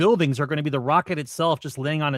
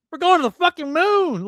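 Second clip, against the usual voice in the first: put-on very high kid voice blurting out in snapping outburst; 13 semitones higher, 4 dB louder than usual. Retelling how a kid at a rocket launch snapped at an interviewer: imitating a kid snapping. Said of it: "the kid just snapped, and he went".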